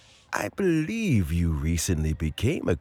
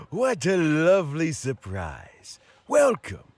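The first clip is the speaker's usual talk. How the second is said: higher, pleased greeting; delighted welcome; 10 semitones higher, 3 dB louder than usual. Acted. Old man welcoming visitors, delighted and high. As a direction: sound truly glad to see them.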